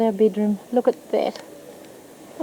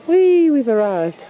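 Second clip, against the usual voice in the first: excited; 5 semitones higher, 3 dB louder, slower than usual. Real, not acted. Arriving at the house.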